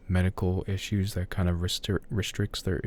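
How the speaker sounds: tripping over words; flustered stumble mid-sentence; stuttering. Real, not acted. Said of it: "I'm stuttering here".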